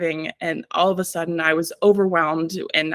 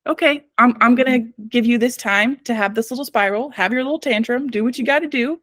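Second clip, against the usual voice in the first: talking to the spiral; 4 semitones higher than usual. Pretend. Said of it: "We have to be like".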